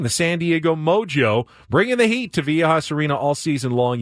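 upbeat on-air giveaway pitch; punchy DJ contest read; radio contest promo. Acted.

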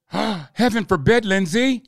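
slow, hammed-up gasp of horror; mock shock. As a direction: feign clutching your pearls, drawn out. Mock outrage at Graham's remark.

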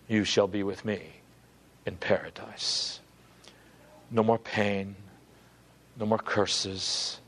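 low, hushed promise; gentle reassurance. Acted. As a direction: give solemn comfort to a dying man, voice kept down. Jesus reassuring the dying thief.

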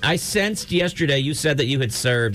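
a radio host gently hinting the caller needs help; mock sincere host. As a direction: ease into it like a gentle counselor.

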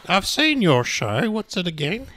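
slow, drawn-out golf club voice; golf person voice. Retold or imitated. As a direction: say it slowly, like a golf club member. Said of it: "Is that how golf people speak?".

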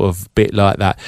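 lightly imitated English accent; English friend's voice. Shown as a demonstration. Impersonator recalling his first imitation, hint of English accent. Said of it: "I did his voice".

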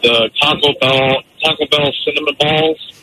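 muffled caller on a phone; bad phone line. Real, not acted. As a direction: talk through a bad phone connection. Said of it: "You sound like hell".

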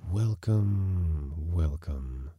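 drawn-out welcome, sinking away; fading voices. A narrator's reading. Hidden voices greet the crashed man, fading away. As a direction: let the greeting fade slowly downward. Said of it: "They faded".

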